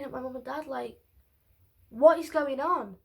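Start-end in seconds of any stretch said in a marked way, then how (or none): 1.9-3.0 slow, louder baffled question; bewildered, with slow emphasis; retold bewilderment. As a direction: re-enact mild disbelief, drawing the words out. Retold bewilderment looking at parents.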